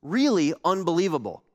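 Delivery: lightly voiced bragging prophet; boastful Jonah. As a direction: gloat like the proud winner. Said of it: "Why wasn't Jonah like".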